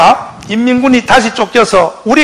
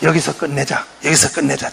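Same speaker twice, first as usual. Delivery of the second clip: pressing negotiators; 9 semitones lower, 9 dB quieter than usual. Retold or imitated. American negotiators pressing Rhee.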